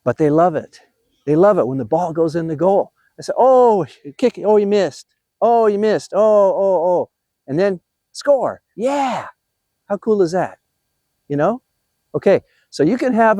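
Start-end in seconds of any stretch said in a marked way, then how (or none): 3.4-7.1 playful spectator. Acted. Grandpa playing spectator at toy soccer misses, playful excitement. Acting out watching toy shots miss. 8.7-9.3 higher, drawn-out falling cheer; playful cheer. Acted. Grandpa celebrating when the toy goal finally scores, playful cheer.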